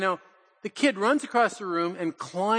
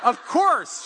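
higher and louder, amused; laughing agreement; 9 semitones higher, 6 dB louder than usual. Retold or imitated. Grandpa answering granddaughter's elephant idea, amused and bright.

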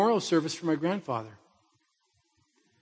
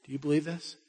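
quiet question; 6 dB quieter than usual. Shown as a demonstration. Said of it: "See, it's always about belief".

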